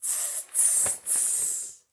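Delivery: soft voiceless tss, tss, tss like chattering monkeys; monkey tsking. Acted. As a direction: hiss it back like cheeky monkeys. Monkeys mock the peddler back.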